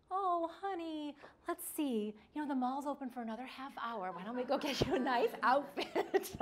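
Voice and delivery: sugary cajoling, a little hammed-up; rescuing parent. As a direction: act an indulgent parent coaxing a child. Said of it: "We might rescue".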